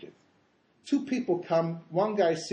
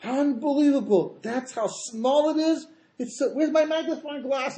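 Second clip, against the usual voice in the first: high, stretched wail of astonishment; hammed-up anguished amazement; mock crying disbelief; 9 semitones higher, 4 dB louder, slower than usual. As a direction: act out the wicked lamenting in shock. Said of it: "they're crying 'cause they're going".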